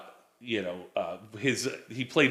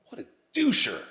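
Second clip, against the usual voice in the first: put-on eighties dude voice, slowing down; Pauly Shore; 2 semitones higher than usual. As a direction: stretch it out like an eighties goofball. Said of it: "That sounds like Pauly Shore".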